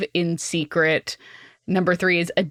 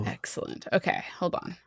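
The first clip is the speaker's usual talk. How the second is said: scheming whisper, voice dropped right down; 7 semitones lower, 12 dB quieter than usual. Real, not acted. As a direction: whisper it like a plotting villain.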